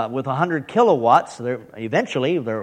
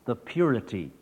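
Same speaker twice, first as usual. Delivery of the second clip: hushed, lower, mock-reverent announcement; mock solemnity; 5 semitones lower, 8 dB quieter than usual. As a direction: present it softly with pretend grandeur. Mock-solemn praise of own accent.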